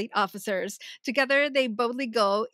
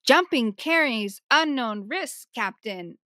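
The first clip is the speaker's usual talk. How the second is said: Stamets line; 6 dB louder than usual. Retold or imitated. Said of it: "Stamets says".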